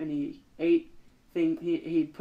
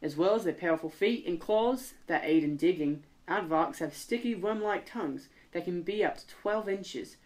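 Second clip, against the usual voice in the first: light attempt at an Australian accent; 4 dB quieter than usual. Reading aardvark facts to the co-host in a light Australian accent. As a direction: read the passage in a mild Australian accent. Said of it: "Is that an Australian accent?".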